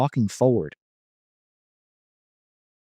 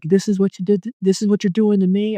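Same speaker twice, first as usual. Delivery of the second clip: high-pitched, indignant complaint; mad; 10 semitones higher than usual. Retold or imitated. Man complains to God in his vision, retold anger. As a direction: protest in a raised, hurt pitch. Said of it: "I was mad".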